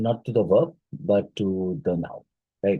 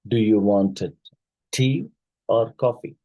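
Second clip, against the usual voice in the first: "tea" pitched up, signalling more to come; rise on first choice. Shown as a demonstration. Teacher demonstrates a choice question, pitch rising on "tea". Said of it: "the rising pitch on the first item signals continuation".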